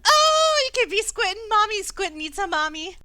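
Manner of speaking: high, loud little creature voice; pixie. Acted. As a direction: squeak it out like a tiny sea creature. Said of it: "a little voice in your head".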